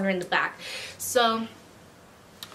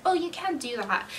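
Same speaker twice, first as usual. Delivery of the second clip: higher, sugary customer-service voice; fake customer service; 4 semitones higher than usual. Shown as a demonstration. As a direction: put on a fake sweet service voice. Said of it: "I have a fake customer service voice".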